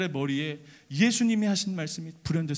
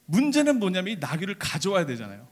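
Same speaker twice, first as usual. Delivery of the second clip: usual speaking voice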